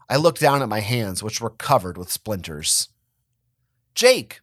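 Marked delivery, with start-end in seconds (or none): 3.9-4.4 high, loud call of his name; sharp startled cry, pitched well up; mother crying out. A narrator's reading. Mother shouting at her son over the cracked tile, high and loud. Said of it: "my mother cried".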